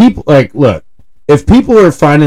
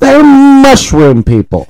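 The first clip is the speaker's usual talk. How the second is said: very high, slow, incredulous insistence; mounting exasperation; 13 semitones higher, 3 dB louder, slower than usual. Real, not acted. Podcaster hammering home the point about toads, exasperated. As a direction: draw out each word, pitched way up in exasperation.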